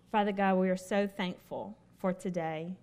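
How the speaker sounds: soft opening prayer voice; hushed congregational prayer. Acted. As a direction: pray humbly to God. Leads a prayer.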